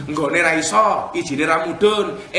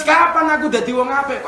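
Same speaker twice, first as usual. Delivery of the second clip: raised, louder preaching voice; emphatic quoting; 7 semitones higher, 5 dB louder than usual. Retold or imitated. Preacher quotes the listener's written plea, emphatic. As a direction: push the question out high and strong.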